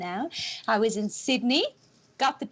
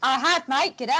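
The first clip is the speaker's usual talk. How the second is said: put-on a light Australian accent, a bit louder; mock Australian; 5 dB louder than usual. Presenter answering cohost in light mock Australian. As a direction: play the Aussie with "mate" and "G'day". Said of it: "I've even got my accent".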